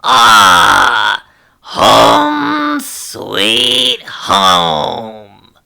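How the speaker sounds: slow, loud, low wail of joy; tearful joy. Acted. Sailor arriving home, crying out with loud joy. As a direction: stretch every word, overcome with feeling.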